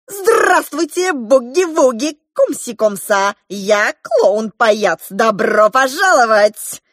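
high, loud hammed-up clown greeting; clown shouting. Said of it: "закричал он". (высокий громкий клоунский выкрик)

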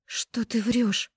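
slow, high shocked gasp; stunned by the lie. A narrator's reading. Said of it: "ахнула я". (ахнуть медленно и потрясённо)

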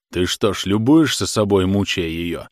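a touch of a stern reproach; reproaching comrade. Acted. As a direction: Khokhol lightly voiced, rebuking his friend. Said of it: "спрашивал Хохол".

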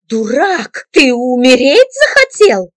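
woman scolding him as a fool; angry scold. A narrator's reading. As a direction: yell at him for being reckless.

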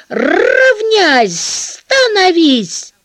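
loud, harsh drill-sergeant bark; rough barked command. Retold or imitated. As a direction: bark it like a gym teacher. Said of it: "Он очень грубо кричит, вот так".

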